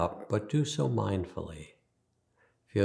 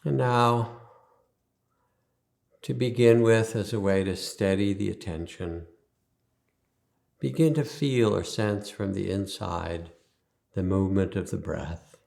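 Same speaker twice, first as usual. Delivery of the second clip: guided meditation. Acted. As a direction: ease them into stillness, leaving space after each instruction.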